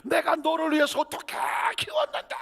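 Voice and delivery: high, wounded parent's cry; hurt parent. Acted. Preacher acting a hurt mother scolding her child, rising high.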